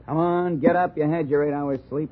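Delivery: loud, rough calls to wake a sleeping man. Acted. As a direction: shake him awake with your voice. Detective rousing sleeping suspect.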